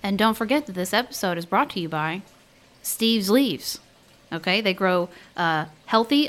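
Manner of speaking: a lightly voiced sponsor read; mock ad read. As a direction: read it like a podcast ad spot. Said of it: "her pretending to do a reading for Steve's Leaves".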